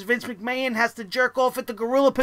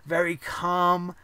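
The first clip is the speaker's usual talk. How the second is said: calm demo; 5 semitones lower, 4 dB quieter, slower than usual. Shown as a demonstration. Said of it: "very methodical in his delivery".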